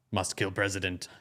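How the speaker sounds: low, mock brainwashed monotone; activated sleeper assassin. Brainwashed plant hearing the trigger song, mock activated assassin. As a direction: lightly play a brainwashed assassin switching on. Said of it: "they get activated".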